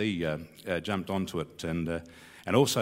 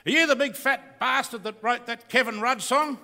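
higher, mock-accusing bloke in the street; confronting stranger; 12 semitones higher than usual. Stranger in Murwillumbah confronts the songwriter, mock accusing. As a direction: put on the challenging stranger's voice.

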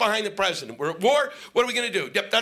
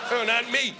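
mock whiny denial; 5 semitones higher than usual. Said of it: "whining Christian shit going".

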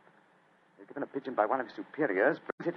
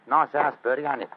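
loud Cockney small talk; casual, projected Cockney; Cockney accent; 2 semitones higher, 4 dB louder than usual. Acted. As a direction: chat as a Cockney workman. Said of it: "My Cockney accent doesn't compare with yours".

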